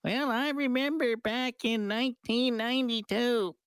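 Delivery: put-on high, slow old prospector drawl; crusty old-timer reminiscing. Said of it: "I'm starting to sound like an old prospector".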